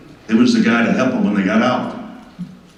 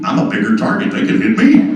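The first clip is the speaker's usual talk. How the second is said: scared half-whisper; 12 semitones higher than usual. Retold or imitated. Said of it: "I'm kinda scared".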